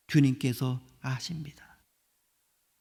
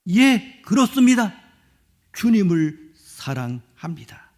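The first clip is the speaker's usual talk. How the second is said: confident answer; 2 semitones higher, 4 dB louder than usual. Acted. Peter's confident model answer.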